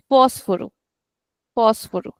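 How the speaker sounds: "Fósforo" with long "Fós", short rest; stretched first syllable. Shown as a demonstration. Teacher repeating it for the class, stretched on FÓS. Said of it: "rest of it is small".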